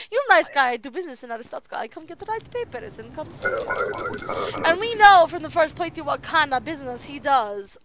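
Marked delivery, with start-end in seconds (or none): 0.1-4.6 applicant voice. Acted. Applicant's broken English.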